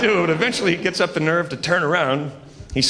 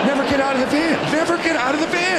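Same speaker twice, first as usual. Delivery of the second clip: much higher and faster, panicky chant; rising panicked mantra; 10 semitones higher, faster than usual. Retold or imitated. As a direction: spiral up into panic repeating it. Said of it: "he just starts going".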